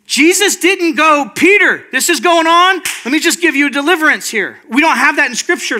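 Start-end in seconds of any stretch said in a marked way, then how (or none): 1.3-4.6 higher-pitched parody of ministry; mock eager healer. Jesus supposedly offering Peter instant deliverance, mock-eager. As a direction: jump in to fix it, pitched up.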